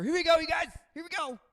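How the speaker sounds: high resigned pilot bracing for impact; doomed pilot. Retold or imitated. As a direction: brace the crew for the crash. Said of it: "I imagine their final moments are".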